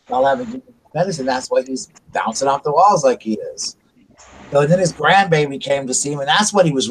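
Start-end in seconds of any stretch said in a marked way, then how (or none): 0.1-3.7 exasperated scolding. Retold or imitated. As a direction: rattle it off at the nurses, fed up. Son scolding the nurses.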